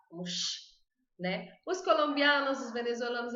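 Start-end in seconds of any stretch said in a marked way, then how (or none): 0.2-0.7 "sh" as in a hush; X sound. Shown as a demonstration. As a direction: voice the X as a soft "sh". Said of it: "pronunciam como um X".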